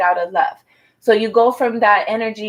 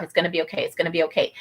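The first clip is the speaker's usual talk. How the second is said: soothing self-talk; 4 semitones lower, 7 dB quieter, much faster than usual. Retold or imitated. Voicing the reader's calming self-talk.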